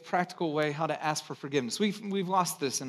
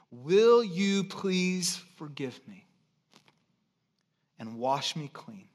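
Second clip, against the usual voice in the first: slow pleading prayer; slower than usual. Shown as a demonstration. Modeling a prayer of confession.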